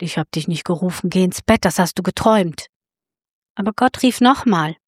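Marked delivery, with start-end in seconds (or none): 0.0-2.7 put-on old priest Eli. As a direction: brush the boy off like a sleepy old priest. Old priest Eli answers the boy.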